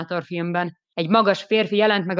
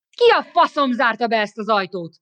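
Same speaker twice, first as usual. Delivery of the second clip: angry shout; 4 semitones higher, 4 dB louder than usual. Acted. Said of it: "kiáltottam dühösen".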